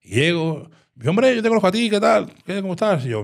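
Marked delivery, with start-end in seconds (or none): 1.1-3.0 high, loud, overly cheery hello; loud fake-chummy welcome to a dealer; forced friendly greeting. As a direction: greet him like an old pal to defuse it. Greets dangerous dealer with mock friendliness.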